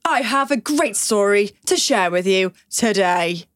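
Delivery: slow, formal news delivery; newsreader voice. Shown as a demonstration. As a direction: announce it like breaking news. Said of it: "I can't do the whole thing in that".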